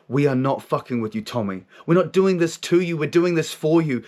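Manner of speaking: emphatic retold reassurance; forceful inner voice. Voice answers his suspicion, firm and emphatic. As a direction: imitate a voice firmly insisting on its good intent. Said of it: "comes in with this force of energy".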